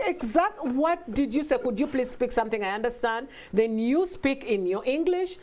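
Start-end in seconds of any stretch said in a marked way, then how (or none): 0.1-3.3 higher-pitched mock bafflement; exasperated retold questioning; baffled parent. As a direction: imitate a parent who can't follow the child. Baffled parent questioning child's speech.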